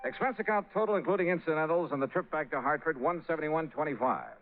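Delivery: wry expense report voice over music; narrating the expense report to George; report narration. Acted. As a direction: dictate the closing report, dryly.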